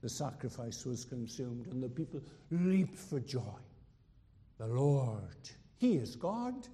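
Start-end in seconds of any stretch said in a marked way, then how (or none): 4.6-6.7 triumphant cry. Retold or imitated. Crowd's triumphant cry retold.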